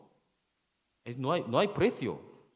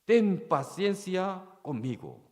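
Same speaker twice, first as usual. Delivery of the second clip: begging servant; 5 semitones higher than usual. Retold or imitated. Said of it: "le rogaba diciendo".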